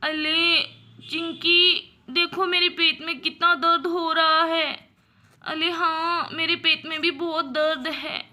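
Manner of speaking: two little sisters complaining through tears; crying in pain. Acted. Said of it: "रोने लगती हैं".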